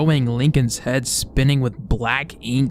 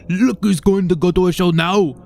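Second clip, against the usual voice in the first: loud, higher, menacing taunt; gloating killer; 5 semitones higher, 6 dB louder than usual. Acted. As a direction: sneer it at the victim. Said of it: "The man said".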